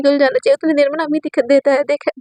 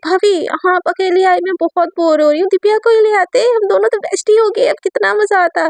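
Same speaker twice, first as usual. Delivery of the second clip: put-on sweet girl voice; 6 semitones higher than usual. Teen girl voiced to sister-in-law.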